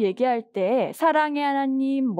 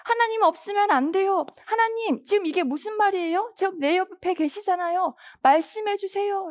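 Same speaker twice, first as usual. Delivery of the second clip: higher-pitched plea to God; desperate yearning; 4 semitones higher than usual. Acted. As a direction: beg God urgently for an answer. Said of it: "그것도 갈급하게".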